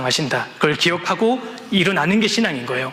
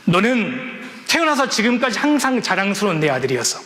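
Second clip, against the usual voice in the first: tearful father; 6 semitones higher than usual. Retold or imitated. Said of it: "더 울면서".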